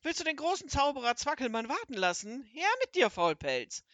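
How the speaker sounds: a wizard ranting and threatening a beating; furious wizard storms into the kitchen yelling; raging. Acted.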